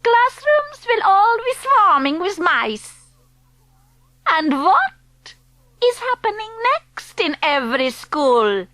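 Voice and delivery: a hint of a foreign witch accent; Grand High Witch. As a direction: speak as the stern witch leader.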